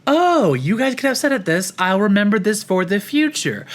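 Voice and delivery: lightly voiced high, naive self; a touch of chirpy mock inner voice; imitating inner voice. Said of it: "it's like".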